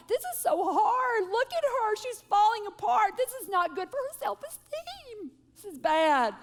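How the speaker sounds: hammed-up anxious mother; mother fretting to husband over crying daughter; panicky mom. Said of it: "I was like".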